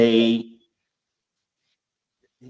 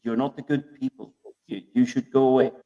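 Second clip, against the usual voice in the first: dismissive insult; 2 semitones lower, 5 dB quieter, much faster than usual. Retold or imitated. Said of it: "in the other countries".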